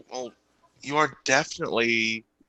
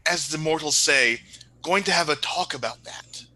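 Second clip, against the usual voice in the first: a touch of princely formality, somewhat higher; lightly voiced formal prince; 3 semitones higher than usual. Prince addressing father and mother, mildly lofty and formal. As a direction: declare it with courtly poise.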